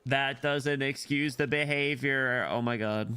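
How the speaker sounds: slow, drawn-out indignation; getting mad. Real, not acted. Streamer fed up with the brother's behavior, getting mad. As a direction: drag it out, getting annoyed. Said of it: "I'm getting mad".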